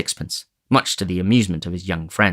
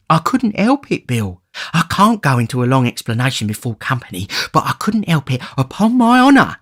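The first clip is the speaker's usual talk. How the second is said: put-on much higher, pleading old man; whining Fagin; 5 semitones higher, 3 dB louder than usual. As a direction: wheedle and protest your honour.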